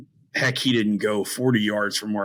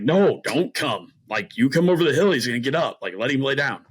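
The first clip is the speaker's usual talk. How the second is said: higher-pitched urgent retold plea; urgent warning; 4 semitones higher than usual. Hunter telling his brother not to come over, urgent warning. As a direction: imitate heading someone off, pitch lifted.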